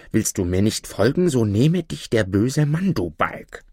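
mildly exasperated scolding; scold, falling on the last insult; exasperated mother. Acted. Woman cursing her disobedient child, understated exasperation. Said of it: "voll Unwillens und rief aus".

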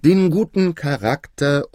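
full-voiced, measured royal statement; prompted repeat out loud. A narrator's reading. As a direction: take up the prompt and proclaim it. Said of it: "sagte der König nun".

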